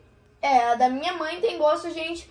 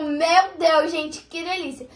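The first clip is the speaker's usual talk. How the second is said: mock rapture; 2 semitones higher, slower than usual. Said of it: "também não é aquelas coisas".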